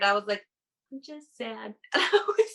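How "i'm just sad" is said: retold whisper. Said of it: "I whispered".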